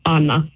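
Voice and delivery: "Anna" said AHN-na; Italian-style Anna. Shown as a demonstration. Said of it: "if I was in Italy".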